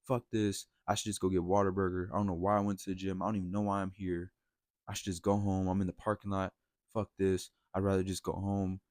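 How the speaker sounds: mildly frustrated inner rant; acted frustration. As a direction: grumble to yourself, a touch forceful. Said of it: "Sit there, and I'm frustrated".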